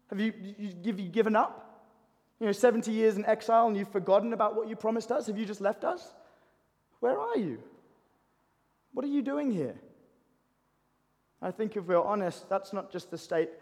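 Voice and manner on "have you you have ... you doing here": higher-pitched, hurt questioning of God; frustrated questioning. Acted. Exiles asking God if he has left them, frustrated. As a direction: press God for an answer, mildly exasperated.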